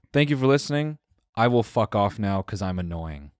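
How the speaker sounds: put-on lightly accented stranger, like a downbeat Borat; depressing Borat accent. Drunk guy thanks his listeners, lightly Borat-accented. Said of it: "depressing Borat".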